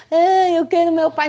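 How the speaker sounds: mother mocking a crying child on video, loud and high. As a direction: wail it like a kid begging for daddy. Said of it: "não chorando".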